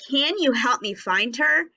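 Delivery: questioning lilt on HER; teacher modelling a question; asking a question. Shown as a demonstration. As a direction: ask it as a real question, lifting HER. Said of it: "That sounds like we're asking a question".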